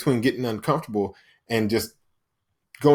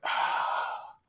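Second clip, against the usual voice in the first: acted weary sigh; 9 dB quieter than usual. Imagined first reaction to gym morning.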